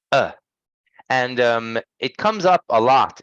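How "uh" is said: uh as a short, relaxed central vowel; uh, unrounded and reduced; schwa sound. Shown as a demonstration. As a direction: demonstrate the schwa, a brief uh. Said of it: "It's the sound of".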